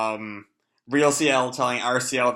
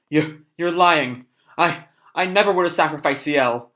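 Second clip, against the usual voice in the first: a hint of a frantic boy; desperate denial; 3 semitones higher, 4 dB louder than usual. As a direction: plead against the truth. C L refuses to believe demon.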